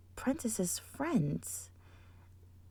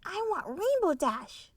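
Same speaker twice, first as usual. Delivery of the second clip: higher, eager little cheer; 7 semitones higher, 4 dB louder than usual. Acted. Scootaloo picking Rainbow Dash, high cheer. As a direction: cheer it out happily. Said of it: "cheered Scootaloo".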